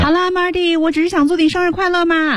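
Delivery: "快乐" lifted up high; lilting sincere tone. Shown as a demonstration. Host voicing the line in Chinese, lilting tone. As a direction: pitch rises on the happy part. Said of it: "就是这种声音".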